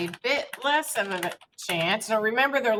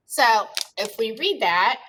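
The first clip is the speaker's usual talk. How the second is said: while sipping a drink; 4 dB louder than usual. Real, not acted. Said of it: "sorry, I'm drinking water".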